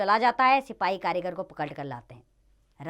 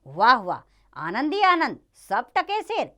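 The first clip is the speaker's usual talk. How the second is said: high, louder cry of delight; acted glee, pitched up; delighted exclamation; 3 semitones higher, 5 dB louder than usual. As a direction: marvel aloud at your good luck. Disciple delights at cheap prices.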